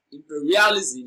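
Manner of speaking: imperialism with "per" drawn out; stress on PER. Shown as a demonstration. Teacher showing which syllable of imperialism takes stress, stress on PER. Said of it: "per, receives the stress".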